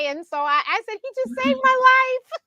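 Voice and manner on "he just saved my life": high, loud, gushing exclamation; hammed-up retold amazement; dramatic. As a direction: squeal it as a mock-dramatic announcement. Retells her dramatic exclamation to clients.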